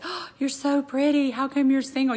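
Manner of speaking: mock sing-song compliment; mock gushing. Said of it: "if one more person says".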